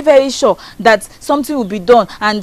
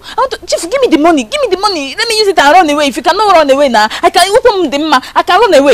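higher, agitated, insistent begging; panicked pleading; 5 semitones higher than usual. Acted. Amaka begging chief for money to flee, panicked. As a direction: plead frantically for a way out.

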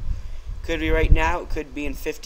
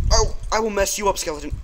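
mock threat; 5 semitones higher than usual. Real, not acted. Threatening attacking skeleton.

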